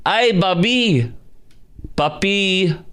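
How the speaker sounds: high, slow mock Latina accent. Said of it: "And then today it is".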